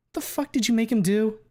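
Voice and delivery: sharp high angry outburst; furious. Acted. Fang yells at Reed over the vow, high and furious. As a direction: spit it out, high and loud.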